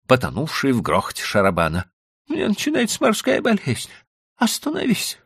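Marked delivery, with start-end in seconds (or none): 2.3-5.2 high, pleading woman's cry; wife pleading. A narrator's reading. Wife begging husband to stop the cart, high and pleading. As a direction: beg him to stop. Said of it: "раздался голос Билли".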